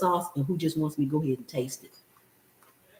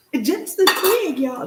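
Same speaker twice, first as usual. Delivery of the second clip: "just an egg" said higher and louder; higher, louder marvelling repeat; amazed emphasis; 9 semitones higher, 3 dB louder than usual. Real, not acted. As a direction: lift and punch "It's just an egg" in wonder.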